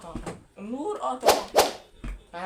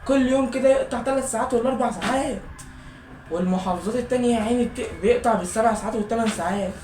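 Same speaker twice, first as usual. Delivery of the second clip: loud, higher grumbling that settles down; venting about the daily blackouts; fed-up lament, still raised; frustrated complaining; 3 semitones higher, 4 dB louder than usual. Real, not acted. Keeps complaining about power cuts.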